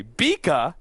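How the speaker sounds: "Bika" with no R at the end; dropped final R. Retold or imitated. Caster showing co-caster's accent, "Bika" without the R. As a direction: say "Bika", ending on a plain open vowel. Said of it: "I don't hear an R at the end".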